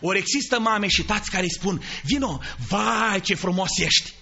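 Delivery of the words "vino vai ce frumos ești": tender mother. Retold or imitated. Loving mother to child.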